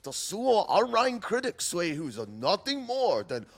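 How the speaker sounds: hammed-up Chinese accent voice; mock Chinese accent. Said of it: "the Chinese voice".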